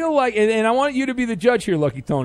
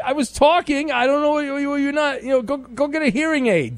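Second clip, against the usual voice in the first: indignant higher voice; 9 semitones higher than usual. Real, not acted. Host protesting to the caller in a much higher indignant voice. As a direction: pitch jumps much higher in disbelief.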